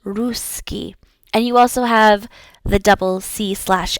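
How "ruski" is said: Ruski with a long, stressed OO; soft Ruski, first vowel held out; emphasis on U. Shown as a demonstration. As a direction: lean on the U of Ruski, softly. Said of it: "emphasis on the U sound".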